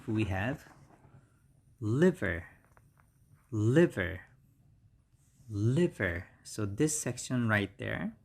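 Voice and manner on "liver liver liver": LIVER with stressed short first syllable, falling; model pronunciation. Shown as a demonstration. Teacher naming number sixty-five for learners, spaced model pronunciation. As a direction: repeat LIVER carefully as LIV-er, pausing between repeats. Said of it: "and the pronunciation is".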